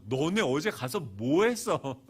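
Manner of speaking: loud, slow parental demand; imitating a cross dad; stern questioning. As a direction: interrogate the kids, drawing it out. Acted questioning of his children.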